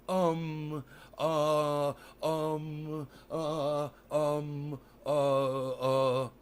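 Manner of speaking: a light, halting run of ums and uhs; Elon Musk impression. Streamer mocking Elon's pauses for chat, light halting ums. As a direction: stall again as the mocked billionaire. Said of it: "Is that a good impersonation of him?".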